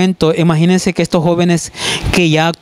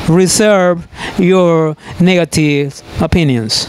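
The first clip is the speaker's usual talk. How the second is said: pointed warning; much slower than usual. Acted. Teacher addressing critics.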